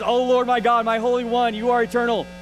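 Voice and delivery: pushier, exasperated praise; frustrated plea. Retold or imitated. Frustrated Habakkuk pleading with God, pushier tone. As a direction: press God with rising frustration. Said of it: "'cause he's getting more frustrated".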